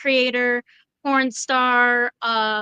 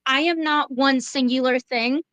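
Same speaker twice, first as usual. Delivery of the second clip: talking through hiccups; hiccuping mid-sentence. Real, not acted. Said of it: "Excuse me, I have the hiccups".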